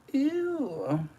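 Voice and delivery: very high ew; squeaky ew. Real, not acted. To viewers, looking at the blush, a high squeal.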